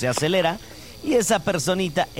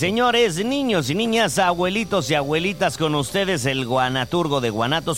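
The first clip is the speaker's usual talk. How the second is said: grand announcer introduction; ringmaster. Pretend. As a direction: present the poet like a showman. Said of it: "si el gallito me presenta de la forma adecuada". (presentador de circo)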